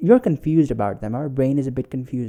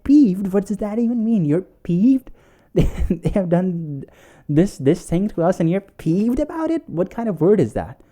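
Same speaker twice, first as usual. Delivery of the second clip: high, louder baffled questioning; acted incredulity; 7 semitones higher, 5 dB louder than usual. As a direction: throw the word back in mock outrage. Acting out Tony's disbelief at partner.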